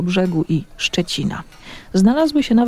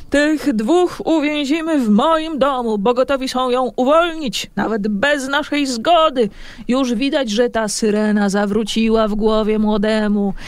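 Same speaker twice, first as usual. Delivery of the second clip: rousing; 4 semitones higher than usual. Acted. Eryk rallies fishermen, greedy.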